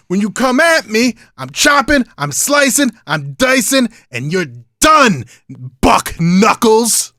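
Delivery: lightly voiced cocky wrestler boasting; wrestling promo. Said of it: "Oh, let's cut a promo".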